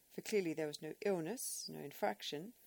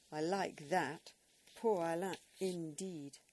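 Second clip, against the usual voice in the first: indignant scorn; 6 dB louder, slower than usual. Acted. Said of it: "Missus Pusey bridled".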